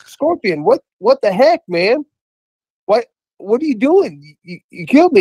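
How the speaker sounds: high-pitched, stammering protest of a betrayed frog; acted high-voiced, indignant victim; dying frog. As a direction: play a storybook frog crying out in disbelief. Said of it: "And the frog's starting to die. And he says".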